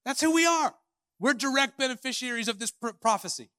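emphatic declaration. Acted. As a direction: hit it straight at the room. Emphatic turn to audience.

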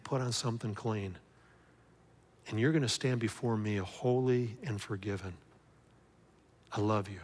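soft, gentle reassurance; tender Father. Retold or imitated. God the Father forgiving his child, softly and tenderly. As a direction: speak as a loving father forgiving.

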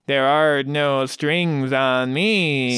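very slow, deliberate Ultron line; James Spader as Ultron. Retold or imitated. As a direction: speak it slowly like the Ultron villain. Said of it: "Such a good James Spader impression".

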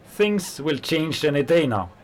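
high, loud and rousing; fervent. Acted. Worker telling his friend the revolution is coming, fervent.

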